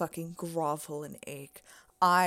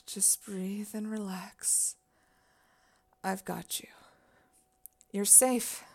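tender whisper. Acted. Aftercare, holding him close.

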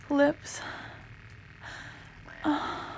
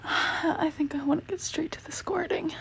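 whispering; 3 semitones higher than usual. Real, not acted. Whispered line.

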